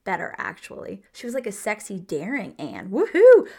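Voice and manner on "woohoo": loud, high whoop of delight; joyful whoop. Real, not acted. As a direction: cheer like your team just scored. Celebrating Maud's daring side.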